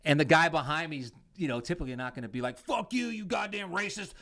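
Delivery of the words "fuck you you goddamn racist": mock outrage. Mocking imagined angry stranger.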